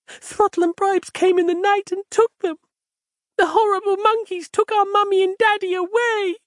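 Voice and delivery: put-on a frightened girl crying out her story; high, weepy child telling of the monkeys; sobbing little girl. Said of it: "bursting into fresh tears".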